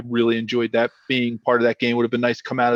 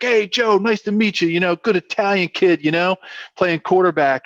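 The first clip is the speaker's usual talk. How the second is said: imitating a hearty Italian-American dad, pitched up; high-pitched South Philly dad impression; South Philly storyteller; 8 semitones higher than usual. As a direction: play dad greeting a young quarterback, high-voiced. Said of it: "typical South Philly Italian storyteller".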